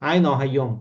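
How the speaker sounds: saying আই নহাইয়ম in Chittagonian Bengali; Chittagong dialect. Shown as a demonstration. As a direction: Chittagong dialect demo, spoken naturally. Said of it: "উপভাষাটা পুরোপুরি মুখের ভাষা".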